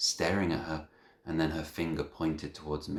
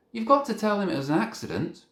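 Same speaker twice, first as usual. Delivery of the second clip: urgent call; 6 dB louder than usual. A narrator's reading. Boy calls across reception.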